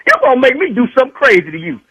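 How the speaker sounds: heated threat starting high; worked-up, menacing outburst; angry warning. Real, not acted. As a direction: warn him off in real anger. Husband threatens the doctor.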